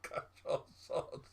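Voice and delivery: whispering the punchline; breathy whisper. Real, not acted. Repeating punchline to himself.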